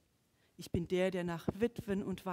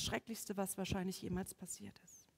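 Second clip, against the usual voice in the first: whispered dread; 2 semitones lower, 7 dB quieter than usual. Acted. Preacher whispers about the worst night, hushed. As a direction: let it fade into a whisper.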